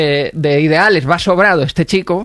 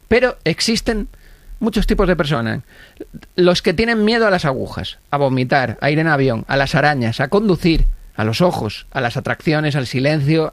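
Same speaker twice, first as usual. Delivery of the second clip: closing monologue. Acted.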